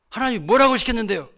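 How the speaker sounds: high, loud indignant demand, acted out. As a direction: challenge the pastor's excuse. Acted angry deaconess challenging pastor. (발끈해서 따지듯)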